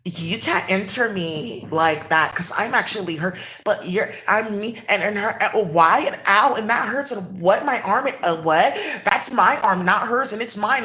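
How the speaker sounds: lightly acted confused protest, halting and circling; imitating delusional talk. Imitating delusional Incas claiming an arm, lightly confused. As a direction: stumble through it, mildly bewildered. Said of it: "that's how they talk. The Incas are, like, delusional".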